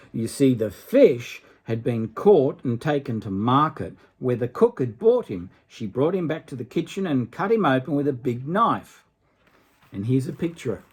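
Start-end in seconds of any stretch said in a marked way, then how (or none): 0.1-9.0 gentle storybook reading voice; story narration. A narrator's reading. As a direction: read it like a bedtime tale. Reads a fairy tale aloud.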